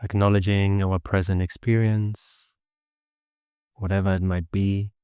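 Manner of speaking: even, unhurried meditation guidance with long pauses; steady meditation voice, little pitch movement; guided meditation. Acted. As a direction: guide listeners gently into the body and breath.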